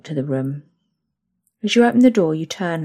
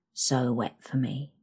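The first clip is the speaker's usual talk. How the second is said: moaning; 3 semitones lower, 6 dB quieter than usual. Acted. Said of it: "you moan into my ear".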